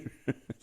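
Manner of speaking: soft short laugh; chuckle. Real, not acted. Reading viewers' jokes, soft laughter. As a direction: let out a quiet chuckle.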